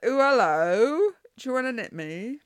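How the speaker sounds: very loud, high, stretched mock-Cockney hello; Mockney accent. Sweater pattern calling out to the knitter, hammed-up Cockney. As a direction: belt out a hammed-up Cockney come-on. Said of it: "a Cockney accent or a Mockney accent".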